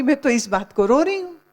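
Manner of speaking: hammed-up whiny widow; mock whining widow. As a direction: whine it like a vain widow. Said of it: "खैराती की माँ ने मुंह ऊपर किया और कहते".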